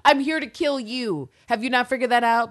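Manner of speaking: high, loud mock outburst, first words drawn out; Villanelle's exasperated outburst. Voicing the assassin confronting her oblivious rival, exasperated outburst. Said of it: "she's like".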